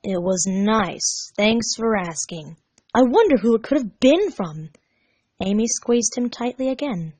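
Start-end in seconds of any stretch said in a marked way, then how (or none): 0.0-4.7 slow, emotionless reply; deadpan and slow; flat, unimpressed thanks; flat, no emotion. Acted. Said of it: "No emotion in his voice at all".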